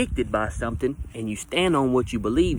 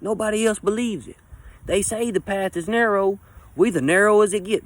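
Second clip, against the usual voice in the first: smug agreement; 8 semitones higher than usual. Retold or imitated. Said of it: "it's like".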